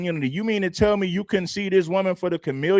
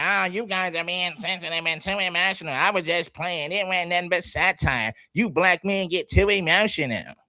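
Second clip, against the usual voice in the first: mocking her excuse; 3 dB quieter than usual. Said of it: "Do you believe this woman?".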